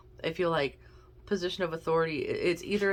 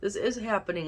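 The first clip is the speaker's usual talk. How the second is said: hiccups; 5 semitones higher, 3 dB louder than usual. Real, not acted. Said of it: "I got the hiccups again".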